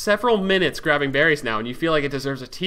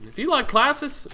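tag; 3 semitones higher than usual. Pretend. Mock advert for friend's song.

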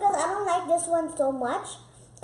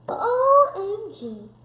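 excited; 6 semitones higher, 6 dB louder, much slower than usual. Real, not acted. Kid reacts to challenge.

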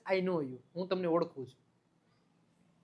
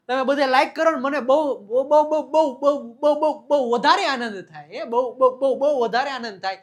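excited, louder, higher repeats of બહુ; mock overjoyed; 3 semitones higher, 4 dB louder than usual. Begging viewers to like the video, excited and loud. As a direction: gush with mock delight, piling up each બહુ.

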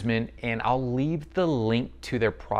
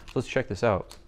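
usual speaking voice

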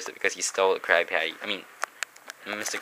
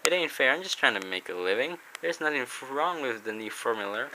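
higher, fretful crab captain voice; panicky Mister Krabs; 5 semitones higher, 3 dB quieter than usual. Acted. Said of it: "And Mister Krabs panics".

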